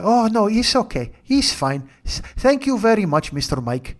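polite put-on Hispanic accent; polite passengers, lightly voiced Hispanic accent. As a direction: thank the driver sweetly, Hispanic accent. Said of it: "my voices of Mario, Nacho, and Evelyn".

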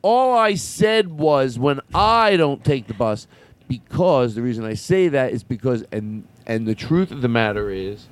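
rally the crowd like a candidate; politician speech. Acted.

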